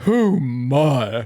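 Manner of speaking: very long, drawn-out "oh my," lingering on "my". Retelling their first reaction to the proverb book: very long drawn-out "Oh my". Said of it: "I let out a very long".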